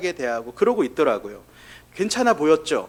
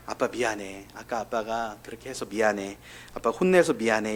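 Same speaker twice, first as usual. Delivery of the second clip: put-on soft, hushed apology to a sleeping child; 6 semitones lower, 6 dB quieter than usual. Father hugging his sleeping son, softly hushed apology. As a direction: murmur it gently so the boy stays asleep.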